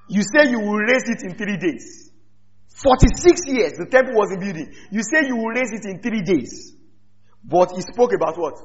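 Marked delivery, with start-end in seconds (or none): 0.1-2.1 scoffing through a laugh. Acted. Jews' retort, laughing. 2.7-6.7 mocking with laughter; laughing scoff.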